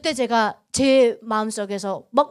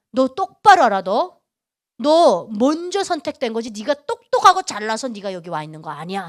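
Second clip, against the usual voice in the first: firm, measured telling-off; stern reprimand; 3 semitones lower, 3 dB louder than usual. Retold or imitated. God putting Yuna in her place, firm reprimand. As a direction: set the listener straight, hitting the opening hard.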